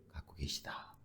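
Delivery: whispered close; hushed whisper. Acted. Pastor hushing the last word to the church, whispered. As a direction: let the word fall to a whisper.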